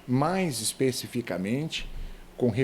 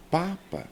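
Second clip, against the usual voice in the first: "papa" with a raised, stressed first PA; penultimate stress; 6 semitones higher than usual. Shown as a demonstration. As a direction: lean on the first syllable of "papa". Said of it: "a penúltima sílaba". ("papa" com o primeiro PA tônico)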